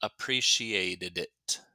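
"appreciated it" run together with a bouncy tongue; quick connected "appreciated it"; said quickly. Shown as a demonstration. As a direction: link "appreciated it" into one word. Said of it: "When I say it quickly".

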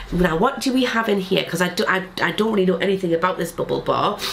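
stuffy, bunged-up voice; blocked nose. Real, not acted. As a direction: talk through a blocked nose. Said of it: "I'm a bit bunged up".

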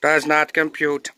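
glitching robot stuck on a loop; a broken-down robot repeating itself; old rusty robot. Acted. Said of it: "System malfunction".

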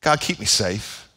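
a small, cautious prayer voice; mock timid prayer. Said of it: "what about this one".

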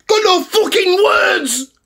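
slow, strained, near tears and shouting; choked-up angry outburst. Real, not acted. Fan gutted by the loss, choked-up shout. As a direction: voice cracking with raw anger.

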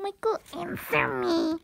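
hammed-up yelling for an answer; mock angry demand. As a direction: call out insistently, drawing out the last words. Acted demand to Michael.

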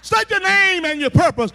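loud, high-pitched guard's order; sentry's demand. Acted. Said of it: "the peace of God says".

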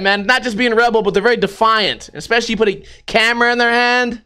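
usual speaking voice

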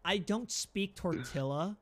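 slow, drawn-out American accent. Shown as a demonstration. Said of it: "American accent".

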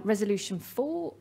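ordinary delivery

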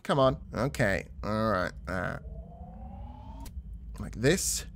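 ordinary talk, nothing marked

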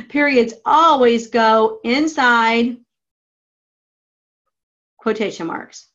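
slow, deliberate rule read; slow dictation. Shown as a demonstration. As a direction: spell out the rule slowly.

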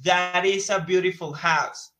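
slow, careful English model sentence; teacher modelling English slowly. Shown as a demonstration. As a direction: spell it out slowly for the class. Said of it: "Miren cómo decimos acá".

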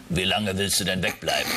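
low, stern mother asking; deep mother voice. Acted. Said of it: "die tiefe Stimme ist die Mutter".

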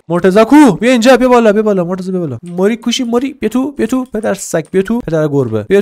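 high loud calls to a pet; calling out. Real, not acted. Owner calling pet Morteza to come inside, loud high calling. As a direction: call the animal in, high and loud.

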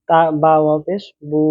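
বু stretched to one alif length; drawn out vowel. Shown as a demonstration. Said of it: "এভাবে একটু টেনে পড়তে হবে". (বু-র উ স্বর এক আলিফ টেনে)

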